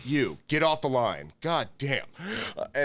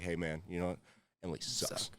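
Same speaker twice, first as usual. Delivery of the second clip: devil whisper; 7 semitones lower, 10 dB quieter than usual. Retold or imitated. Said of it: "two devils just kinda constantly whispering in my ear".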